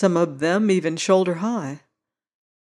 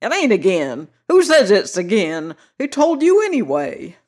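put-on cracked querulous old man; 3 semitones higher, 4 dB louder than usual. A narrator's reading. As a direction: whine it like a cranky old-timer. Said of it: "cracked and querulous".

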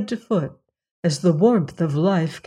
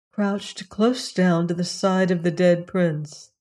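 ordinary delivery

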